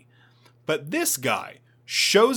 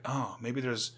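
wistful; 3 semitones lower, 6 dB quieter than usual. Retold or imitated. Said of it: "the guy's like".

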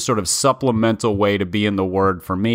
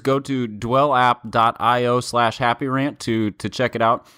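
ad read. Acted. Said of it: "tell us about Dwell".

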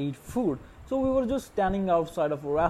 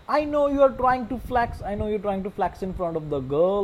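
louder, higher call-out of a show-off; scolding; 3 semitones higher, 4 dB louder than usual. Real, not acted. Mocking his friend for flexing in front of the girl, louder scolding. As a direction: call him out loudly.

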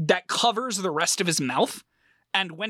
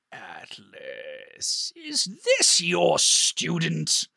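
stern headmaster; much slower than usual. Acted. Headmaster sternly questions Atlas.

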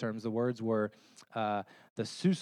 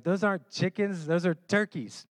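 mom correcting; 7 semitones higher, 4 dB louder than usual. Retold or imitated. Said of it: "and she's like".

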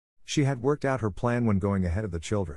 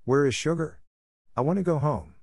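frightened wail; 6 semitones higher than usual. Acted. Scared child Mytyl wails to go home, high and frightened. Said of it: "Mytyl howled".

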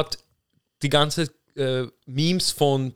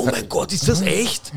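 higher, incredulous laughing quote; imitating a man cracking up at a meme; Elon Musk laughing; 7 semitones higher than usual. Friend mimics Elon Musk laughing at the dead deer meme, higher and giggly. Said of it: "er so".

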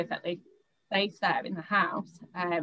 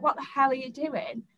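a retold snap of alarm and anger, not a full shout; startled angry retort; 6 semitones higher than usual. Woman confronting the man under the duvet, higher startled retort.

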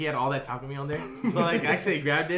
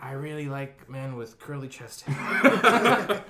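slow sultry voice; much slower than usual. Retold or imitated. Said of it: "you're gonna call".

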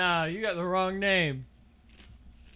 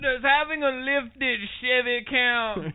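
slow redneck; 3 semitones higher, slower than usual. Pretend. Redneck character bit.

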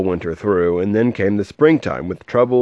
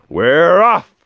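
higher cheerful call; mild shout; 9 semitones higher, 6 dB louder than usual. Acted. Men shouting as the wagon leaves, higher cheerful call. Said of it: "the men shouted".

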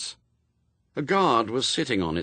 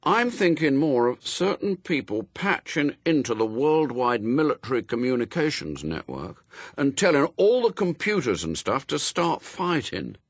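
put-on higher boy voice musing on mischief; scheming boy Adam; 6 semitones higher than usual. A narrator's reading. Adam musing to his gang, lightly voiced boy.

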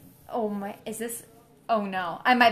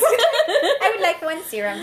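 higher, slow and laughing mock voice; 8 semitones higher, 5 dB louder, slower than usual. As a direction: repeat it as a silly soldier. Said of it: "repeats quote in voice".

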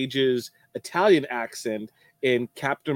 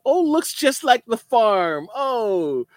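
mock country girl; 10 semitones higher, 4 dB louder than usual. Mocking Jasmine's farm girl act, high hammed-up twang. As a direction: play a gushing country bumpkin, way up high.

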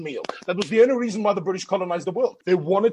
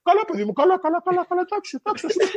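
much higher, humouring sing-song okay okay; dismissive Greek locals; 11 semitones higher, much faster than usual. Retold or imitated. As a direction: brush him off like a patient parent. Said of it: "they go".

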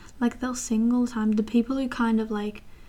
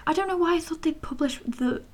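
whispered and pitched up, half laughing at herself; embarrassed whisper; 7 semitones higher than usual. Real, not acted. Confessing her childhood logic to viewers: sheepish whisper. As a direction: breathe it out as a sheepish aside.

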